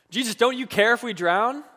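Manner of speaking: high-pitched mock cry of alarm; retold yell. Disciples crying out to Jesus in the storm, mock panicked. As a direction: call out as if the boat is sinking. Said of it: "yelled at Jesus".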